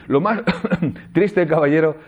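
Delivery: coughing through lo más triste, caballero, with a laugh. Shown as a demonstration. Teacher demoing the verse for students, interrupted by coughs.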